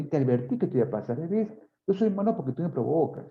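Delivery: a hint of a self-righteous abuser; blaming aggressor. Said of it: "La clásica, ¿no?".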